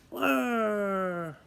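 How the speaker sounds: long drawn-out whirr, very slow; tyre whirr. Retold or imitated. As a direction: stretch the whirr like spinning tyres. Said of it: "the tyres go".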